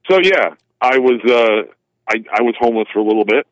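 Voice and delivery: loud and firm; military voice. Real, not acted. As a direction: speak up like a soldier. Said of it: "I'll use my military voice".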